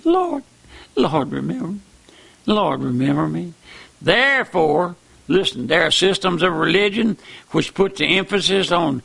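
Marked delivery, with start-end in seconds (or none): 0.0-3.5 pleading thief. Retold or imitated. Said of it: "he said".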